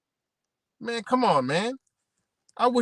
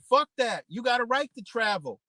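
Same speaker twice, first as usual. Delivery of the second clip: lightly voiced officials, raised pitch; mock government voice; 6 semitones higher than usual. Officials urging drivers to travel, lightly voiced higher pitch. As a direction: sell the open road like a pitchman. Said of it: "They were like".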